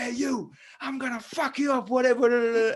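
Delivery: imitating a drunk's high, mocking threat, pitched well up. The speaker imitating the guy threatening Thomas outside the bar, mock aggressive. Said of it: "the guy turns around and goes".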